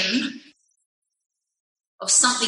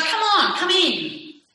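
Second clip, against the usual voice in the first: higher mock husband coaxing her like a child; a wife voices her husband soothing her, pitched higher; imitating her husband; 4 semitones higher than usual. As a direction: pitch up and coax gently, then tease. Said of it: "He's like".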